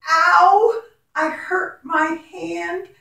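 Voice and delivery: hammed-up ouch from a pretend hurt hand; mild mock pain for the ow sound; mock hurt cry. Shown as a demonstration. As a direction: play a pretend ouch for the children. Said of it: "ow sound".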